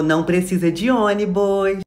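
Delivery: slow, drawn-out teacher line; teacher's reassurance. Acted. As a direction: stretch it out like a schoolteacher. Acted teacher brushing off pupils.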